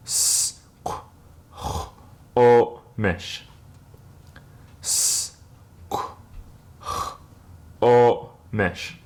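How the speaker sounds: "Squamish" said as "Skwomish" with rounded lips; teacher modelling the word; whole word. Shown as a demonstration. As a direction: join the parts into "Squamish". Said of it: "put it all together".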